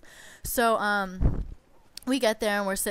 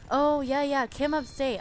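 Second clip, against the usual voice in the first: careless nail guy; 6 semitones higher, slower than usual. Retold or imitated.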